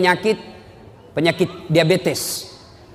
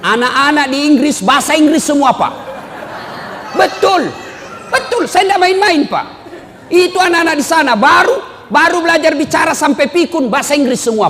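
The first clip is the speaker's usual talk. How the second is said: high, emphatic sermon delivery; impassioned preaching; 10 semitones higher, 4 dB louder than usual. Real, not acted. Preaching at full force.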